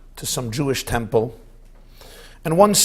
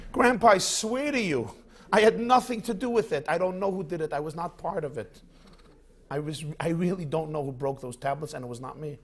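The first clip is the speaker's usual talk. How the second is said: put-on a boy swears he didn't do it, pleading; 3 dB quieter, faster than usual. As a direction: protest innocence, trailing away. Boy denies it to grandfather.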